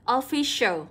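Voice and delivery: "official" slowly, c said as sh. Shown as a demonstration. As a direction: spell out the sh sound in "official". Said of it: "cũng sẽ là âm sh". (đọc chậm "official", rõ âm sh)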